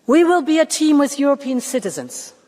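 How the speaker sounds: formal speech, team given extra weight; stress on team. Real, not acted. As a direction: lean on the word team. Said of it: "I want to stress the word team".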